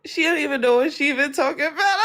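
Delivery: high, quick Southern imitation near laughter; attempted Southern accent. Shown as a demonstration. Australian's redemption try for the host, fake Southern accent. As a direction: mimic a Southern accent, badly faked. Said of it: "In, like, a Southern accent?".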